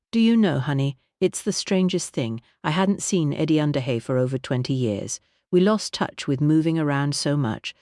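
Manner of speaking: a warm, grand singer's voice; Vivian voice. Acted. Vivian tells of father.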